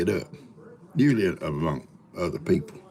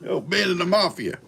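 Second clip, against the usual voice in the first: playful shout; 10 semitones higher, 5 dB louder than usual. Real, not acted. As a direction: drag it out teasing. Teasing Ben loudly.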